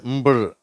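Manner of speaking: "ம்பிள்" as m, b, r run together; MBR blend demo. Shown as a demonstration. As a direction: isolate the mbr cluster. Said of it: "அப்ப எப்படி வருது".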